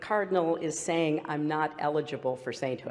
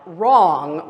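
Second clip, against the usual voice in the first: loud mock heckle at usual pitch; mock shout; 9 dB louder than usual. Candidate mimicking her rival's interruption, mock shout. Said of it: "stand up and shout".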